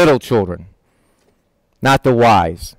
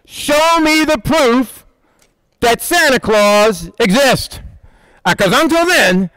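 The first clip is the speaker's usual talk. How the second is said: put-on a kid refusing Santa's gifts without proof; skeptical kid; 4 semitones higher than usual. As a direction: play a doubting child, lightly. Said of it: "Kids don't go".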